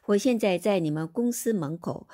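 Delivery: 我现在在你们公司门口 read slowly, each syllable spaced; slow model Chinese. Shown as a demonstration. Teacher reading example sentence to class, slow and clear. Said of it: "입구, 门口".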